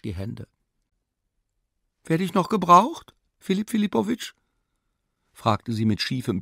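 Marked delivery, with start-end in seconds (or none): 2.0-4.3 higher, lightly voiced young maid asking; the maid asks the professor, lightly voiced and higher; maid's timid question. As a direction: peek in and ask if you're still needed.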